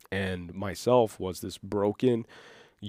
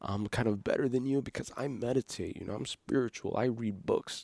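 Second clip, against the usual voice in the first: softly mocking superior self-quote; virtue signaling; 6 dB quieter than usual. Former self boasting to peers about meditating, mock virtue signaling. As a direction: imitate a smug humblebrag, slightly softer. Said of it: "more so virtue signaling".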